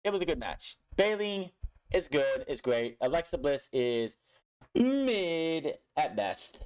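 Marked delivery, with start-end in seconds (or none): 4.8-6.6 slow, drawn-out putdown; dismissive. Real, not acted. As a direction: drag it out with contempt. Dismissing Alexa Bliss.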